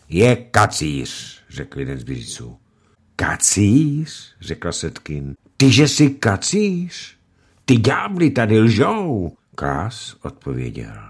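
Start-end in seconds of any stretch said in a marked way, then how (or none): 3.1-4.3 high, disbelieving question; wife echoing the accusation, aghast; surprised echo. Acted. 5.6-9.3 high, loud indignant protest; wife defending her husband, indignant; outraged. Acted.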